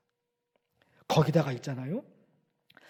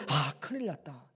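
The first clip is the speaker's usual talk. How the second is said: low, subdued voice of giving up; mock losing heart, dropping soft and low; acted discouragement; 5 semitones lower, 6 dB quieter than usual. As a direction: imitate someone sinking into despair. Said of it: "낙심이 되니까 어떻게 돼요?".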